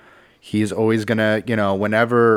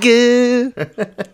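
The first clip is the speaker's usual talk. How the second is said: laughing; 6 dB louder than usual. Pretend. Laughing goofy voice.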